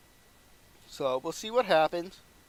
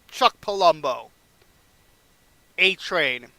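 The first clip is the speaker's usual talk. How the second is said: announced picks; 8 dB louder, slower than usual. Acted. Announcing Bischoff's draft picks.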